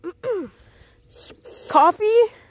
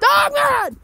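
calling out; 11 semitones higher than usual. Real, not acted. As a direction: shout his name to find him. Calling out for the missing dog.

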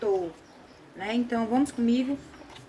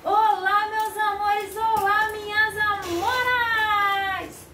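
squeaky high singsong greeting; very high pitch; 8 semitones higher, 4 dB louder, much slower than usual. Acted. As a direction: sing the hello in a tiny high voice. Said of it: "Ai, que voz fina, Rose".

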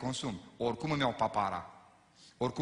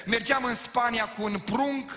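ordinary delivery

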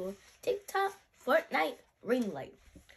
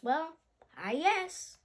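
hesitant, higher-pitched agreement; unsure, half-convinced child; 4 semitones higher, slower than usual. Acted. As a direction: agree reluctantly, with a rising start. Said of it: "Kaya, again unsure".

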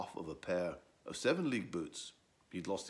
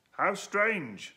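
surprised; 11 semitones higher, 9 dB louder than usual. Acted. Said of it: "said Edwo".

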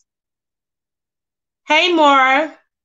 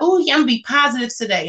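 mock pep; 3 semitones higher, much faster than usual. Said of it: "I'm like".

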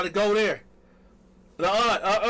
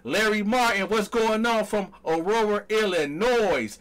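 hype roll call; 5 semitones higher, 3 dB louder than usual. Real, not acted. Roll-call shout-out resumes.

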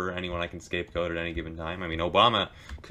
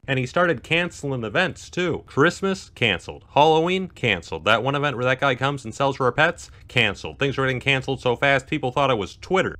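dramatic announcing; 6 semitones higher, 5 dB louder than usual. Acted. Dramatic list of cancellations.

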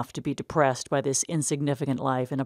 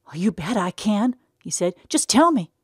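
put-on high, excited childlike voice; bursting to hear the secret; eager simple brother; 6 semitones higher, 6 dB louder than usual. A narrator's reading. Eddie begging Tom to share the secret.

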